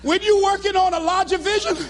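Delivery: high, comic near-tears preaching; heartbroken speechifying. Retold or imitated. Dumped speaker back before cheering crowd, heartbroken. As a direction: push the speech out through mock heartbreak.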